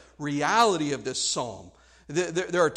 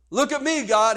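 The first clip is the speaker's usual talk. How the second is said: acted self-righteous appeal, raised voice; 5 semitones higher, 4 dB louder than usual. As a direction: demand God's attention, almost smug. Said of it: "almost a smug, uh, self-righteousness".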